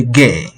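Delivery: 给 said with the third tone, falling then rising; dipping tone. Shown as a demonstration. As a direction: let 给 dip low and rise. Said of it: "even the voice falls and rises".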